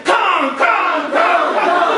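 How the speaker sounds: high loud chanted name; shouting. Acted. Natives shout for Kong, high loud chant. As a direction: shout it like the crowd. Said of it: "The natives are shouting".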